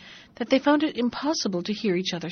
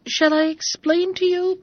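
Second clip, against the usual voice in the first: much higher, louder eager offer; 8 semitones higher, 4 dB louder than usual. Acted. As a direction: jump in eagerly over the noise. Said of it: "began Bobino".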